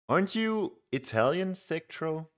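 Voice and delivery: incredulous high question; surprised. Real, not acted. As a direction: pitch jumps way up in disbelief. Chatter writing in Norwegian.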